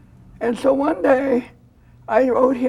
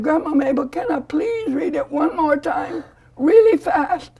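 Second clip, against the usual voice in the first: put-on eager begging boy; 4 semitones higher than usual. Grandma voicing the boy as he begs to race again. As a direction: plead like a kid who wants another go.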